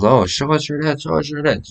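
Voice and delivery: high mocking catcall voice; high jeering catcall; imitating a crude inmate. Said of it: "He goes".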